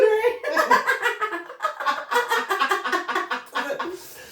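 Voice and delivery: high, prolonged burst of laughter; long laughing fit. Real, not acted. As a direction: crack up helplessly. Bursts out laughing at own muddle.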